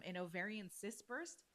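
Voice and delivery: usual speaking voice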